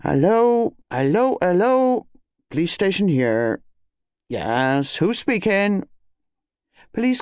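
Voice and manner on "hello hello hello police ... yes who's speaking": constable answering the phone, high repeated hellos; impatiently official. Acted. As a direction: answer brusquely as the police on duty. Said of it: "It became less impatiently official".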